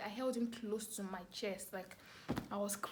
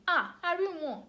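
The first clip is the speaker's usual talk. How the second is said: high, loud excited neighbour claiming to have seen it; gossiping neighbour; 9 semitones higher, 10 dB louder than usual. Retold or imitated. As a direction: pitch it up like an eager bystander. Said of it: "people far away were not saying".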